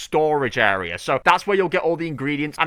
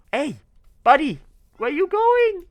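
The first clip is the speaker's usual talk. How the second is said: very high, slow whiny mock cry; mock wail. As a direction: wail after the cat as it leaves. Wailing at fleeing cat.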